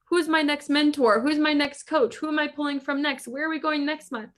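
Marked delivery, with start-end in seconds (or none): 0.0-2.2 excited. Retold or imitated. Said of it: "Feels like".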